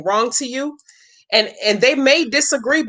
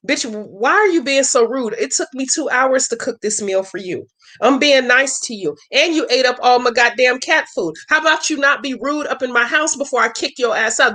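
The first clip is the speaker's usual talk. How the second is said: offended Mama B; 3 semitones higher than usual. Retold or imitated. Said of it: "she's looking at me like".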